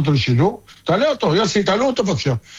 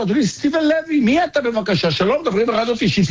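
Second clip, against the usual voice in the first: much higher, hammed-up announcer address; mock formal on-air greeting; 4 semitones higher than usual. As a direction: greet the consultant on air with theatrical politeness. Host mockingly addresses caller on air.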